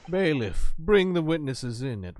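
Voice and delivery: loud, slow order from the bench; commanding. Acted. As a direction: command the bailiff. Judge commands bailiff.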